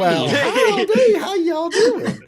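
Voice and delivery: very high, very loud, slow Southern drawl laughing through it; exaggerated Southern accent. Game master riffing on the wrong accent, laughing. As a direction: ham up a cartoon Texan, cracking up. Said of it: "stuck on that accent".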